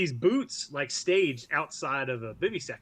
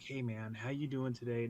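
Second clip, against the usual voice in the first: soft buddy; 3 semitones lower, 9 dB quieter than usual. Retold or imitated. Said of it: "Not that kind of approach".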